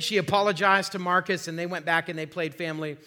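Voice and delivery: ordinary talk, nothing marked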